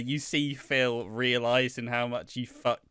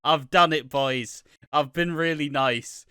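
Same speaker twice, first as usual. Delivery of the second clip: smug Sam; 4 semitones higher, 5 dB louder than usual. Retold or imitated. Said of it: "A moment that Sam thought".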